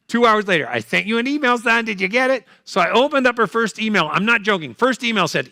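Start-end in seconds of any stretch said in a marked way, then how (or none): 0.7-2.5 lightly higher fussy mother; mom voice. Retold or imitated. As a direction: repeat it wearily as mom. Mother voiced third time.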